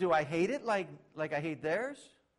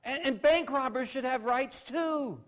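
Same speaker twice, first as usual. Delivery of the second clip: mock sarcasm; 8 semitones higher, 6 dB louder than usual. Continuing mock of sinners' rights.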